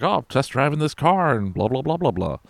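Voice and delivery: smooth talker. Retold or imitated. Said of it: "And he's like".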